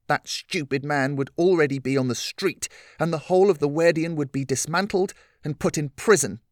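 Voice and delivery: lightly voiced angry young girl; angry Lillian.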